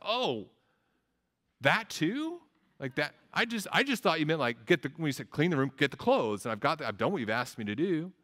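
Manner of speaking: high, surprised, defensive little voice; innocent kid. Acted. Kid protesting to the parent he cleaned his room. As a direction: play the kid caught out, feigning surprise.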